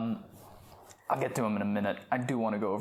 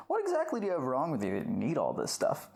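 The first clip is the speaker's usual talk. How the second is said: higher-pitched mock-prying pharmacist; patronizing, suspicious; 4 semitones higher than usual. Pharmacist handing a woman her prescriptions, patronizing and suspicious. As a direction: question them with put-on condescension. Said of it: "they're being patronizing and giving her suspicious looks".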